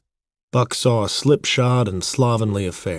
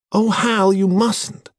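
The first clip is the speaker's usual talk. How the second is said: very high, distressed woman's plea; pleading cry; 12 semitones higher, 4 dB louder, slower than usual. A narrator's reading. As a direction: cry out to stop him, high and urgent.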